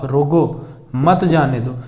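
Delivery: रोको on its own, falling, then मत जाने दो; pause after रोको. Shown as a demonstration. Teacher explaining someone must be stopped, pause after रोको. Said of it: "इसको कहा गया है".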